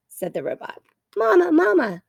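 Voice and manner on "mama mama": high peeping. A narrator's reading. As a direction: peep it like a newborn gosling. Gosling peeping again.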